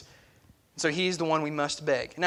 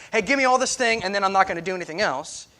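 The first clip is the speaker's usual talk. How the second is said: demanding beggar; faster than usual. Retold or imitated. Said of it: "you can't beg and just say".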